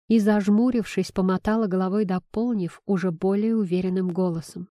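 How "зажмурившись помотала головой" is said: usual speaking voice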